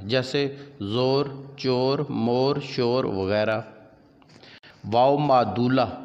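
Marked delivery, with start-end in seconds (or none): 0.8-3.0 long "o" rather than "oo" in जोर, चोर, मोर, शोर; waao majhool. Shown as a demonstration. Teacher showing waao majhool, जोर and चोर with drawn "o". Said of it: "जिसे खूब खुलकर ना पढ़ा जाए".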